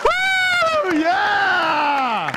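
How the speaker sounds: very high, loud whoops; whooping cheer. Real, not acted. Pastor cheers with the huddled congregation, loud high whoops. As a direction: cheer like the team just scored. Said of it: "all different times".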